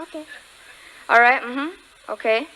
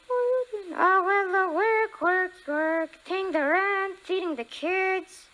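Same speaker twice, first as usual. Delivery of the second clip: high puppet voice; 3 semitones higher, slower than usual. Acted. Ventriloquist act, puppet voice.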